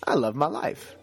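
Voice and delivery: convinced declaration; with conviction. Shown as a demonstration. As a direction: say it as if it is worth something. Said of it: "Just say it with conviction".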